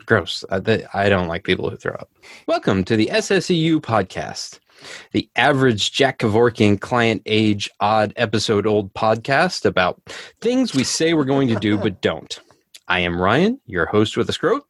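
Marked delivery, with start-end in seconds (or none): 2.5-4.6 presenter's welcome, pitched up; scripted host welcome; podcast intro read. Acted. 5.1-10.0 scripted host delivery; measured presenter read; podcast intro read. Acted.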